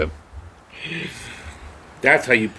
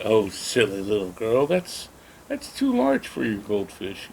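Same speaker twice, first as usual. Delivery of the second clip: condescending neighbor; slower than usual. Retold or imitated. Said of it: "And the man's like".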